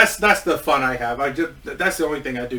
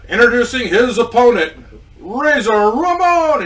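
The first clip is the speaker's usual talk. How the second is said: booming drawn-out announcer call, higher and louder; arena announcer hyping the entrance; ring announcer; 6 semitones higher, 5 dB louder than usual. Retold or imitated. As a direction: stretch out Razor Ramon like a ring announcer.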